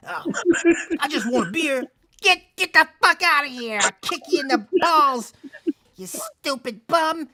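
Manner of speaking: high, loud furious bar lady shouting at a bum; bartender yelling. Retold or imitated. Bar lady screaming at the homeless man, high furious yell. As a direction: chase the bum out at full volume. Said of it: "they would be like".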